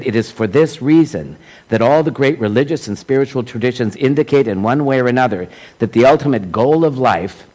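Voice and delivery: emphatic quotation reading. Acted. Speaker reads a teacher's words to a congregation, emphatic quotation reading.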